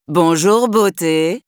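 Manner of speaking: smooth flirty greeting; flirtatious. Acted. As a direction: charm her with a cheeky hello. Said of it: "sur un ton aguicheur".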